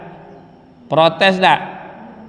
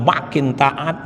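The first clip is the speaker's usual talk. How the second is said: slow refrain; 3 semitones lower, much slower than usual. Real, not acted. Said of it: "repeated refrain, slowed".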